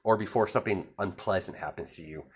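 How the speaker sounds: soft veiled threat, retold with a smile; lightly creepy, hushed on the warning; quietly menacing, mildly acted. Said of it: "he's kinda being creepy about it".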